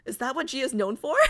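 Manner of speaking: laughing question. Real, not acted. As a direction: laugh through it, amused. Laughing at chat claim.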